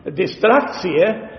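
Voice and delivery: distractie said slowly, ending in a clear "see-uh"; mother tongue pronunciation. Shown as a demonstration. Preacher demonstrates his mother tongue word distractie, slow and careful. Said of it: "we have this word in, uh, my mother tongue".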